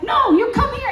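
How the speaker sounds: high-pitched imitated order; mock stern lady guard; commanding. Lady guard stops a trespasser, sharply commanding.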